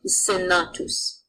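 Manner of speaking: "senatus" said slowly with a hissing S, no Z sound; Latin example word. Shown as a demonstration. Teacher showing students the hard Latin S, slowly. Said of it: "An example of this would be semper".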